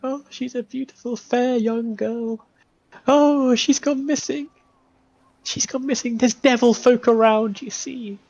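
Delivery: put-on high, pleading old woman's voice; high tearful mother pleading at the door; desperate grieving mother.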